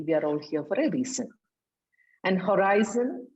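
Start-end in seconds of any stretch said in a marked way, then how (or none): 0.0-1.3 corrected line said fast, a bit softer; quick corrected phrasing. Shown as a demonstration. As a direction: rattle off the fix. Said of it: "I think it should be".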